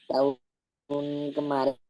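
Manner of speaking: words cutting in and out; choppy broken-up line; radio breaking up. Real, not acted. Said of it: "Suaranya hilang-hilang".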